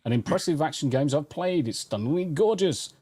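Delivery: emphatic, scripted reviewer delivery; polished written-review cadence; review read-aloud. Acted. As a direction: read out a game review with swooping intonation. Reads a game review aloud.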